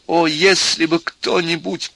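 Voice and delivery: high, slow despairing wish; moaning lament. A narrator's reading. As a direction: moan it out longingly. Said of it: "простонал профессор".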